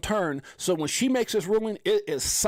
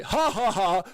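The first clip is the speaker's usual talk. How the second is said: put-on triumphant chuckle; mock gloating laugh; 2 semitones higher, slower than usual. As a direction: gloat with a deliberate ha-ha-ha. Mocking the other side's gloating.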